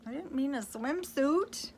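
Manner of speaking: fairy fretting over her mistake; lightly voiced fairy. Fairy admits the wrong suit, lightly voiced. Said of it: "said the fairy".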